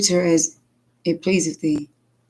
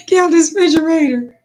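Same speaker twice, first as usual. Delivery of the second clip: put-on higher, louder bossy kid order; 10 semitones higher, 5 dB louder than usual. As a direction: bark it like a little cop. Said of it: "the prophet police".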